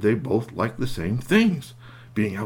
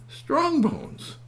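slow name. Acted. Man repeats name to bear.

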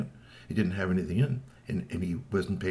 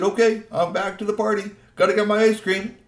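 much higher and louder, breezy; cheerful troll; 11 semitones higher, 9 dB louder than usual. Acted. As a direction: chirp it out like a happy troll. Troll leaves for party.

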